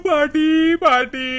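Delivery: slow, drawn-out mock wail of பாட்டி; wife fakes grief for her grandmother, slow wail. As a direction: stretch each பாட்டி into a put-on cry. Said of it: "நம்மளோட நடிப்பை".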